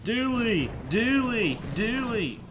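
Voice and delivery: mock yelling for a runaway dog; calling a dog. Imitating the neighbor screaming for her dog Dooley. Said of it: "just scream out his name".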